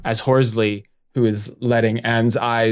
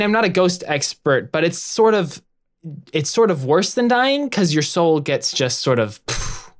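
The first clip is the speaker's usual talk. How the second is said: high, tense and blunt; stressed and blunt; 5 semitones higher than usual. Acted. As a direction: snap it out under stress. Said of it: "she's too stressed out to be, um, sort of gentle".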